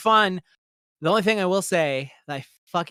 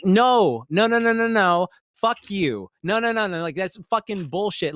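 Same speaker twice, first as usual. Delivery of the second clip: louder string of no, no, no; loud refusal; 4 semitones higher, 4 dB louder than usual. Retold or imitated. Refusing the friends' behaviour, loud mock refusal. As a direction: shout them down with repeated no. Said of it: "It's just like".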